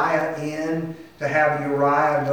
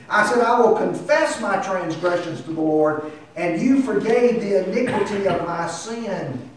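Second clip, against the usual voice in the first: earnest confession, pitch raised; pained psalm reading; 6 semitones higher, 4 dB louder than usual. Acted. David confessing transgressions to the Lord, mildly pained. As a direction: confess to God with a touch of pain. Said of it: "Do you hear the, the pain in David's voice?".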